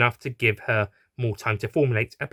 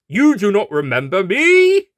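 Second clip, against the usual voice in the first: louder snarling question; 9 semitones higher, 9 dB louder than usual. Acted. Horse confronting the doctor, louder snarl. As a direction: snarl it with menace. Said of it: "the horse snarled".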